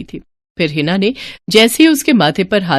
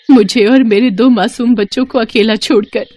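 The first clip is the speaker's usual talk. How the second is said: widow's voice rising into tears; tearful grief; 4 semitones higher than usual. Acted. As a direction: break toward sobbing on the last words. Widow grieving, then sobbing. (रुआंसी, दुखभरी आवाज़)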